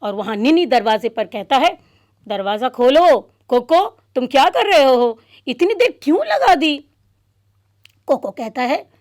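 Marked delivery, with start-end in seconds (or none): 2.3-6.8 impatient calling. Acted. Friend impatient outside door.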